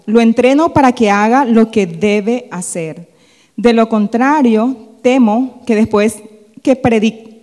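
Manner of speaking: loud, deliberate Bible reading; emphatic verse recitation; scripture reading. Acted. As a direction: project the verse to the congregation, phrase by phrase. Reads the verse aloud.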